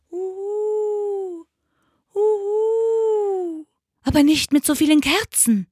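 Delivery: high, long owl hoots, then quick complaint; howling owl voice; hooting owl. A narrator's reading. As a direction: hoot it out like an owl. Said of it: "heulte die Eule".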